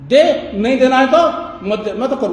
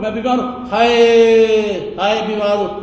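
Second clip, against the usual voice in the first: mock sick moaning. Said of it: "मैं इनको टोक देता हूँ".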